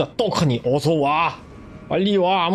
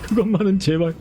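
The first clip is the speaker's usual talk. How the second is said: shocked plea. Retold or imitated. Pleading student in the skit.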